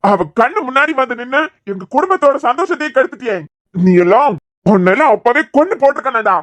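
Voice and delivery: angry scolding. Acted. Father berating son, throwing him out.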